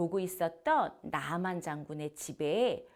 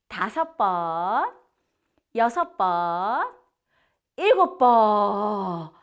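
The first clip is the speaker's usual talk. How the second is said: slow count growing louder to a big finish; counting aloud; 8 dB louder, much slower than usual. Shown as a demonstration. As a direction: build each number louder for the kids. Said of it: "전도사님이 세줄게요". (점점 크게 천천히 숫자 세기)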